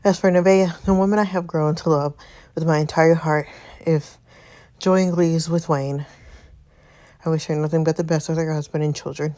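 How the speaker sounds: slightly breathless reading; out of breath. Real, not acted. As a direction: still winded from the stairs. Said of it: "I'm out of breath".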